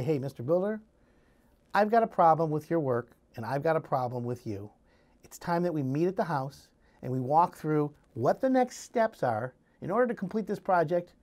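steady, no-nonsense "Mister Builder"; firm, businesslike. Shown as a demonstration. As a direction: state the problem plainly and firmly. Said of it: "now you gotta change your language".

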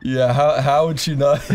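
ordinary talk, nothing marked

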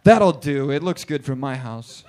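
rushed and impatient, ends in a yelled curse; God rushing to get back to the game; hurried God. Pretend. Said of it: "He was like".

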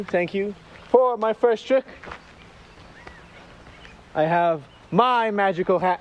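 showman host voice; kids party magician. Acted. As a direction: announce the trick to the kids. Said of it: "hosts magic show for kids".

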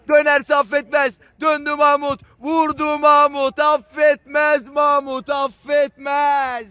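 rising shouted play-by-play, slowing at the end; excited commentator build-up. Real, not acted. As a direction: build the call up to the goal. (heyecanla yükselen spiker anlatımı)

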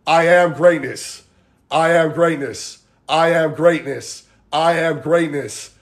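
slow, even chant-like repetition; repeated mantra. Shown as a demonstration. Coach drilling the mantra over and over, slow repetition. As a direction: repeat it slowly with a falling end each time. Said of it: "Over and over".

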